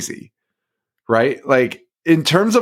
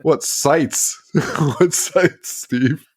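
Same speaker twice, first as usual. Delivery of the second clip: confused Steve; much slower than usual. Retold or imitated. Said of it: "imagine he's like".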